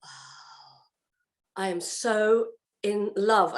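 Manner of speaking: whispered wow, then slow awed words; awed wonder. Retold or imitated. Standing in the kitchen after the Bible, slow awed wonder. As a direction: breathe it out, slow and amazed. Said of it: "with a big grin on my face going".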